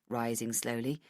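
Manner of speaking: plain reading voice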